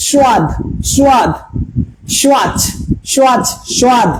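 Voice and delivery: স্বাদ as Hindi "swaad", with an audible w; isolated demo of স্বাদ with a w glide after the s; Hindi-style pronunciation. Shown as a demonstration. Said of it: "হিন্দিতে আবার বলে".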